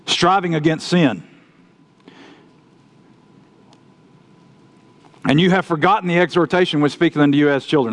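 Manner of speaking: measured, solemn Bible reading; scripture reading. Acted. Preacher reading Hebrews to his congregation, solemn scripture reading. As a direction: read the verses aloud to the congregation.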